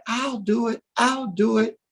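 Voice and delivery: small, high-pitched volunteer; tiny creature's high, eager offer; little voice. Acted. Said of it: "you hear this little voice saying".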